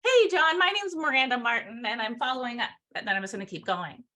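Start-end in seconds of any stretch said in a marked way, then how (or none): 0.0-2.7 smiling introduction. Shown as a demonstration. Trainer role-playing a follow-up call, smiling introduction. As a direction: greet with a smile, then settle into business. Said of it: "smile when you say your name".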